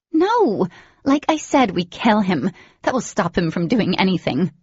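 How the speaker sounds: high, loud ferocious insistence. Acted. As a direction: bark it out, no room for argument. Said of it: "stunned by the ferocity in her voice".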